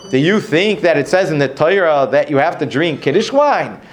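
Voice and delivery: challenging question, rising sharply on "Kiddush wine"; question reading. Shown as a demonstration. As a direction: ask it in disbelief, lifting "Kiddush wine". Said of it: "read it with a question mark".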